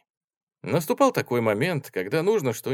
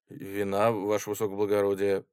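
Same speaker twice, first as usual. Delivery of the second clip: mild confused reply. Acted. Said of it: "растерянно отвечал побледневший солдат".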